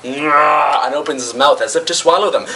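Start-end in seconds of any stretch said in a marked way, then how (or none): 0.0-0.8 drawn-out mock creature cry; restrained giant-monster bellow; monster roar. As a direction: imitate a giant beast's "nyah". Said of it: "he turns and goes".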